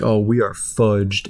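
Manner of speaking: slow robotic computer voice; flat, slow synthesized speech; Stephen Hawking voice. Retold or imitated. Gum says they are doomed in a Hawking voice. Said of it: "in, like, the freaking Stephen Hawking voice".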